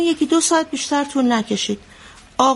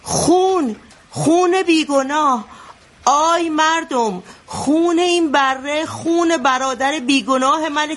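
high, slow, drawn-out mock cry of blood; retold madman's cry; 5 semitones higher, slower than usual. Retelling the madman's wedding cry, high and slow. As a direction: call out slowly like a wild madman, half-acted. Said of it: "فریاد زد".

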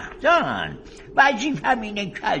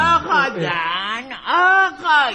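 raised shout; 3 semitones higher, 4 dB louder than usual. Acted. Shouting to stop quarrel.

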